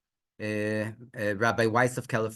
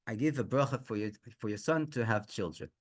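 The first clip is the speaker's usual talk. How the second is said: softer, lowered, measured voice; gentle blessing; 3 semitones lower, 7 dB quieter than usual. Retold or imitated. The Rebbe blessing the son to have children, softly. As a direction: grant it quietly.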